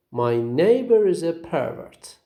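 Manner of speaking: "pervert" said PER-vert, falling off after the first syllable; stress on first syllable. Shown as a demonstration. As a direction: noun "pervert", weight on PER. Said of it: "have the first syllable as the stressed".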